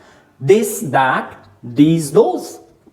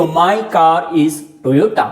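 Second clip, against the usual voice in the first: slow example; much slower than usual. Shown as a demonstration. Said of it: "positive form में दिखाना है".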